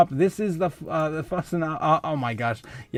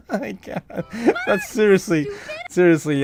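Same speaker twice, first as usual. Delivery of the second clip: breaking into laughter, words squeezed out; can barely speak through the giggles; laughing helplessly; 5 semitones higher, 3 dB louder than usual. Real, not acted. Laughing at the milk and money joke, cracking up.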